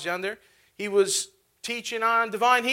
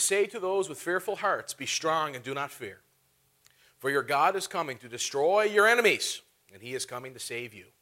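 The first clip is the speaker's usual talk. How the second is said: scripture reading; 4 semitones lower than usual. Real, not acted. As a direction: read the verse calmly to the congregation. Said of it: "Turn over in your Bibles".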